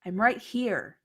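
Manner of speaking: answering yell. Acted. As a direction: shout back to be found. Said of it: "and then she yells".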